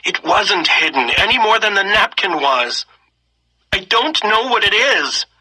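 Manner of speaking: high, tearful protest; tearful girl. A narrator's reading. Girl protesting to the soldier, tearful and high. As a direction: still crying, voice pitched high. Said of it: "wiped her eyes".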